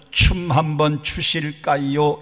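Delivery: slow, polite Seoul-style invitation; slow Seoul speech. Retold or imitated. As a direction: stretch out the polite question. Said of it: "얼마나 짧고 빠른지 모릅니다". (느릿한 서울말 흉내)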